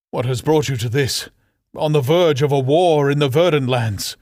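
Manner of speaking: bewildered, rising questions; a touch of bewildered brother; confused. Acted. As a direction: fire off the questions, thrown by it all. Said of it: "in a whirlwind of confusion".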